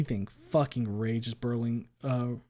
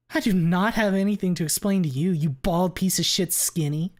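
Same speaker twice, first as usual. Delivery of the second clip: higher, louder furious shout; 7 semitones higher, 7 dB louder than usual. A narrator's reading. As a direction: yell the insult down the stairs. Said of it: "she shouts".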